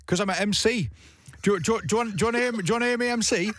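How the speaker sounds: eager would-be MC, northern English; northern English accent. Retold or imitated. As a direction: pester them in a put-on Northern English accent. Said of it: "I'm gonna do a northern accent".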